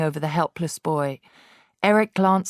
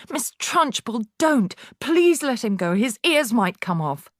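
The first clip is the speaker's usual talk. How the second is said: higher alarmed plea; pleading cry; 6 semitones higher than usual. A narrator's reading. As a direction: beg her to stop. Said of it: "Miss Honey cried out".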